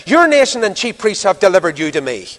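acted irritation, starting high and falling; angry retort. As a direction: push the blame back at the prisoner. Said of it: "he answered angrily".

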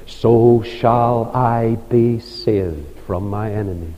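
preacher reading David's song to the congregation, reverent; scripture reading. Acted. Reads David's psalm aloud.

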